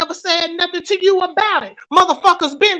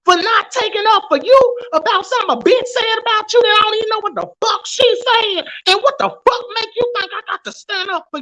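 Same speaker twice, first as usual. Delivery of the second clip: higher, heated rant building up; really heated, pitch rising; 5 semitones higher than usual. Real, not acted. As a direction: let the anger climb as you call her out. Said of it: "'Cause I'm very heated".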